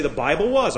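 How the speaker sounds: "was" emphasized in contrast to "is"; stress on WAS. Shown as a demonstration. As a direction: lean on the final "was". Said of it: "Because is is present tense".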